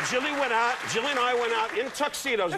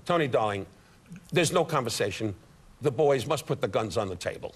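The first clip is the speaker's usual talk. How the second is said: imperious mother; 7 semitones lower than usual. Acted. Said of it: "my mother walks over".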